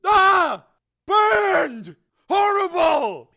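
high, loud bursts of horror; horrified cry. A narrator's reading. Crazed brother seeing burned men, horrified cry. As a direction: cry out each word, appalled.

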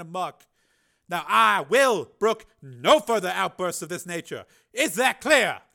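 loud, high commanding reprimand. Acted. Senator reprimanding the engineer, stern and loud. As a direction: come down hard on him.

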